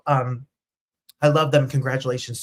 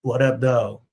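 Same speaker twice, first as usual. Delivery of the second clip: casual greeting; 2 semitones lower, 4 dB louder, slower than usual. Shown as a demonstration. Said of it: "So look at them and say".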